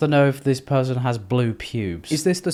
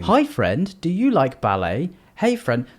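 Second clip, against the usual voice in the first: mock sweet greeting; 2 semitones higher than usual. Reading a stranger's message in a mock sweet greeting voice. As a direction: chirp it like a cheery pen pal. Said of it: "who the fuck talks like this".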